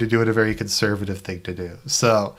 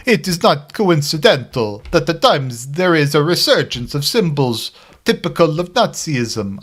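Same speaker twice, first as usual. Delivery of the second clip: a lightly voiced Pope, pitched higher; Francis voice; 4 semitones higher, 3 dB louder than usual. Vlogger reads the Pope's speech, higher mock Pope voice. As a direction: read the Pope's words as him, a little higher. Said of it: "let me try and do my Francis voice".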